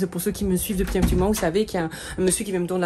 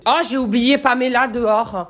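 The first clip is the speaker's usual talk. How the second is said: higher, louder, slow sudden realization; higher, louder startled cry; surprised; 6 semitones higher, 7 dB louder than usual. Real, not acted. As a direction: gasp it out as you remember. Realizes dog left outside.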